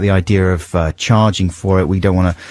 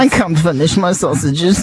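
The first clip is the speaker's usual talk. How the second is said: creepy singer parody; 7 semitones higher than usual. Acted.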